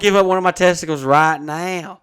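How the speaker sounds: loud, high eager offer; excited. Real, not acted. Wanting the pump, loud excited offer. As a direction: blurt it out, half joking.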